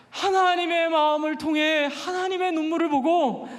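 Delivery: impassioned sermon delivery; preaching. Acted. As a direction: urge the congregation to love their neighbors. (열정적인 설교)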